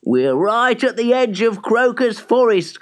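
high, jubilant woodcutter; excited cry. A narrator's reading. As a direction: cry out with relief. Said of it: "cried the old woodcutter".

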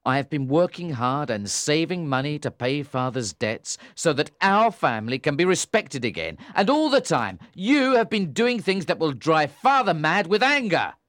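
stern anger. A narrator's reading. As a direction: press her hard, growing fierce. Tom's ultimatum builds.

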